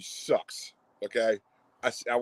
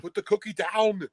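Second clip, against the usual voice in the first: high, strained action-hero impersonation; impersonated movie-hero outburst, pitched way up; Arnie; 10 semitones higher than usual. Acted. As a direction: bellow it like a hammy film-star impression. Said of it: "That Arnie impression is great".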